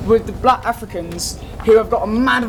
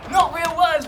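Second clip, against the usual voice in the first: ordinary talk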